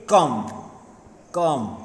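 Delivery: said in one go, no break; one syllable. Shown as a demonstration. Teacher showing a one-syllable word, said in one go. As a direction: say "कम" as a single unbroken beat. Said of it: "one time we are completed".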